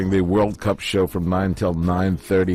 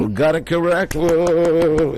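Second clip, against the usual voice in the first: excited; 10 semitones higher, 5 dB louder, slower than usual. Real, not acted. Host excited by right answer.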